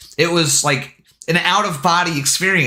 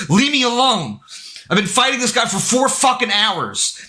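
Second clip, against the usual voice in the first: higher-pitched, mildly irritated plea; exasperated retort; 6 semitones higher than usual. Retold or imitated. Gamer telling his wife to let him play, exasperated. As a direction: act out being fed up at an interruption. Snaps back at wife mid-game.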